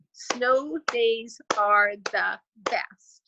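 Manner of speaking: slow whisper, one beat per syllable; whispered clapped syllables. Shown as a demonstration. Teacher to grade twos, slow whispered syllable clapping. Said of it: "I'll clap it along as we go".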